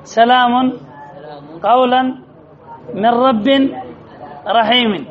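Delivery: each word given alone with the un and an endings of سلام and قولا pushed out; tapping out each nunation for the class; stressing the tanween. Shown as a demonstration. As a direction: hold a pause after سلام and after قولا, rhythm clear and even. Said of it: "كم كلمات في هذه الآية منونة".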